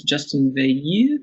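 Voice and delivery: "Justin Veilleux" with a French accent, Veilleux as vay-YUH; light French accent on "Justin Veilleux". Shown as a demonstration. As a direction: say the name the French way, a touch proud of the French accent. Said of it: "I wanna say this with a French accent".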